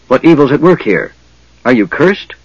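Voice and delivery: loud, high alarmed gasping question; gasped. A narrator's reading. Dwarf seeing the mage's golden face, loud alarmed gasp. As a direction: blurt it out in shock. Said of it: "the dwarf gasped".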